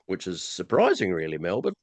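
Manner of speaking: low-pitched, dry sarcasm; sarcastic. Real, not acted. Radio host taking a dig at Melbourne, sarcastic. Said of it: "I'm being sarcastic there".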